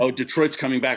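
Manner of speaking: retelling her excitement at the news, mock-thrilled; excited realization. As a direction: perk up on "Oh" like you just found out. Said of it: "And I was like".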